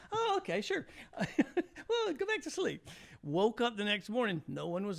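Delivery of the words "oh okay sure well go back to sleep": put-on lightly done English accent, much higher; a casual English accent, easygoing. Brother in an English accent telling the guest to sleep. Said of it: "in an English accent".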